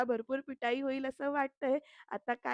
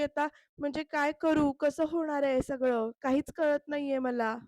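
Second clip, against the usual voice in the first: mock tearful; 2 semitones higher, 5 dB louder than usual. Crying wife lost without her certificates, mock tearful. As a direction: voice the crying wife asking what she will do now. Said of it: "असं म्हणत ती रडते".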